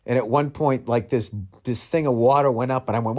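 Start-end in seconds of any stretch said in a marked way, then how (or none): none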